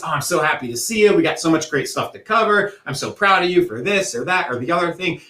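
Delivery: bright, smiling welcome; happy voice. Shown as a demonstration. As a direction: greet them with a big smile. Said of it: "a big smile, a happy voice".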